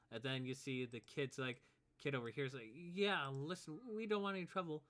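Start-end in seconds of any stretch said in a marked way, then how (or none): 2.7-4.8 put-on higher, appeasing kid voice; reluctant kid. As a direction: back away from a fight, pitched up. Kid backs away from a fight.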